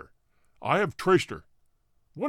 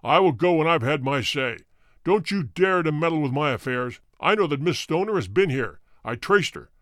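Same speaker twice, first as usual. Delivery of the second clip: menacing threat. A narrator's reading. Roylott warns Holmes off his affairs, menacing. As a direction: warn him like a dangerous man.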